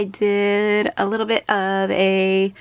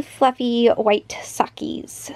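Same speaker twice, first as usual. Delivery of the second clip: whispered; slower than usual. Real, not acted. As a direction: breathe it out cutely. Cutesy word for socks.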